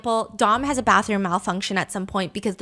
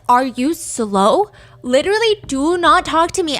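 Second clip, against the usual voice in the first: bratty text voice; 4 semitones higher, 5 dB louder than usual. Retold or imitated. Voicing Mackenzie's angry caps texts.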